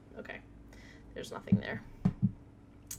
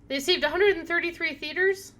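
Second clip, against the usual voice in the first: incredulous; 8 semitones higher, 7 dB louder than usual. Real, not acted. Shocked at the game's reveal.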